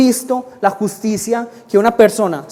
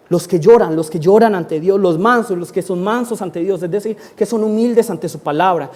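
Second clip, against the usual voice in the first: normal talking voice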